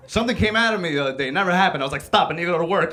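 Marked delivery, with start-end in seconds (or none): 2.0-2.9 odd high voice. Retold or imitated. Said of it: "why am I talking like that?".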